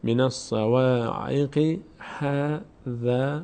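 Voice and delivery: slow, drawn-out Quranic recitation. Shown as a demonstration. Tutor reciting the phrase slowly for students. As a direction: intone the phrase, lengthening every vowel. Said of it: "teacher reciting the verse slowly".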